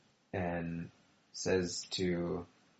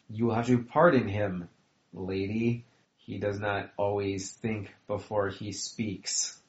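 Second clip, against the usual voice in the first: restrained fury; 2 semitones higher, 4 dB louder than usual. Acted. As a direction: apologize through barely held fury. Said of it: "emotion turned to immediate fury".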